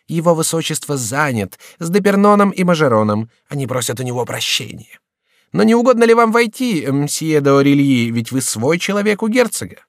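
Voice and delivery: airy, careless courtier teasing the visitor; lightly voiced idle courtier. Шомберг mocks over the duke.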